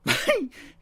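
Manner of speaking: high, loud laugh bursting out; loud burst of laughter. Real, not acted. Host laughs between comments.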